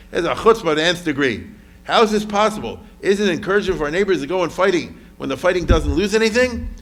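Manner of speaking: loud, heated indignant rant; venting. Retold or imitated. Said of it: "So she's venting".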